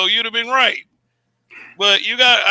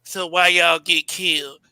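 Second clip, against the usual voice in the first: suspect voice; 3 semitones lower than usual. Retold or imitated. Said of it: "let me read it in a suspect voice".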